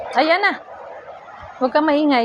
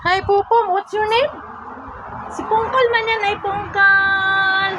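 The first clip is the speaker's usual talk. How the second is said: higher, drawn-out hello with stretched names; high-pitched greeting; 4 semitones higher, slower than usual. Real, not acted. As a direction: greet them in a high voice, letting the last name stretch. Greeting Popom and Pungkol with cooing. (mataas at pahabang pagbati)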